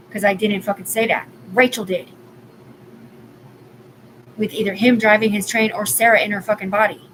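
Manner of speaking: loud, heated outburst; real anger, raising her voice; furious venting, words pushed out loud; angry rant. Real, not acted. Ranting angrily about being set up.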